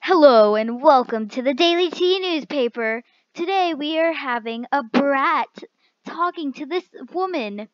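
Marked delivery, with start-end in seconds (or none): 0.0-6.7 mock news anchor opening, a bit louder; playful newsreader welcome. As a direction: greet the viewers like a presenter. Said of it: "let me start again".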